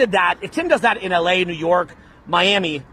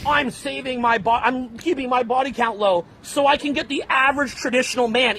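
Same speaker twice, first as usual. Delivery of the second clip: tag; 4 semitones higher than usual. Retold or imitated.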